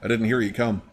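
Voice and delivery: startled clerk, pitch jumping up; mildly startled, rising high at the end; a little startled. Acted. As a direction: caught off guard, flustering into a polite greeting. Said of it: "gets a little startled".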